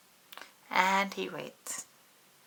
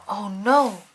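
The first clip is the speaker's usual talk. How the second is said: whispered oh no; 8 dB louder than usual. A narrator's reading. Reaction to Pete's hiccup.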